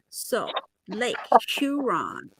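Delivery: 'Lake Huron' in a put-on American accent; careful imitation American 'Huron'; attempted American accent. Shown as a demonstration. Penny practising the lake's name for her co-host, attempted American accent. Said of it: "gotta become an American".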